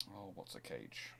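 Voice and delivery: normal talking voice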